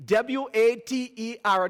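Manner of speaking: W A T E R spelled letter by letter; spelling out. Retold or imitated. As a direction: spell W A T E R, one letter at a time. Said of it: "I decided to spell it".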